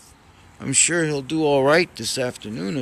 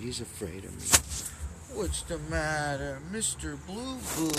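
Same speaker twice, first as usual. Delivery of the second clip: tender; 7 dB quieter than usual. Real, not acted. Soothing a frightened cat.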